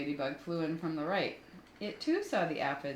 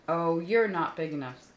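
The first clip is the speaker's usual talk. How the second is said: loud boast; 7 dB louder than usual. Acted. Grouchy ladybug boasting.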